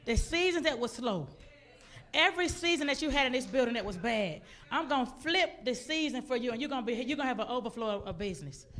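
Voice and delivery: emphatic, loud promise in God's voice; God proclaiming a turnaround, preacher-style. Retold or imitated. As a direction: declare it phrase by phrase with pauses. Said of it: "He said".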